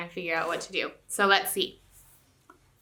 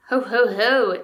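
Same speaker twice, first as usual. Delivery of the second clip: 1 mock chuckle; 2 semitones higher, 9 dB louder, slower than usual. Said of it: "he chuckled".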